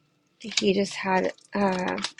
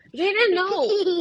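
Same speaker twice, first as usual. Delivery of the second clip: laughing remark; 10 semitones higher, 4 dB louder, slower than usual. Real, not acted.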